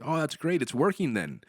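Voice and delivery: lightly imitated jovial reassurance, lifted pitch; easygoing and upbeat, like a jovial Buddha. Partner answering the speaker's petty worries, lightly jovial. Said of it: "like, jovially, like a Buddha, be laughing".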